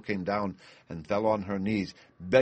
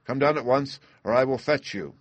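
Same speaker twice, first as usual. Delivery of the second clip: louder, higher bellowed order; bawling; 5 semitones higher, 5 dB louder than usual. A narrator's reading. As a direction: bellow it up the tower. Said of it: "bawled as loud as he could".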